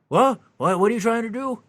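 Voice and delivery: put-on high, baffled old guard; confused old man. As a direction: sound lost and bewildered.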